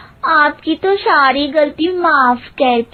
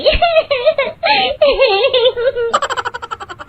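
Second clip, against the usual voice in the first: giggle; 10 semitones higher than usual. Acted. Bride giggles at her joke.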